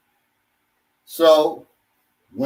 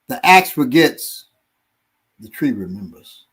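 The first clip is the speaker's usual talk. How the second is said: proverb recital; 3 semitones lower than usual. Acted. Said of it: "I gave an African proverb".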